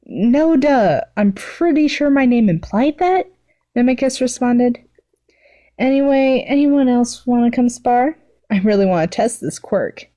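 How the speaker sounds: rolling her eyes at her friend; Mimicus's voice.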